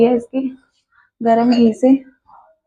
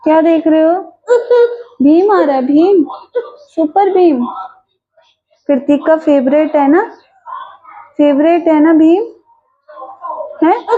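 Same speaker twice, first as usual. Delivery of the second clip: mother cheering her son with his favourite cartoon, higher; cheerful coaxing; 4 semitones higher than usual. Real, not acted. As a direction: lift his spirits with the cartoon.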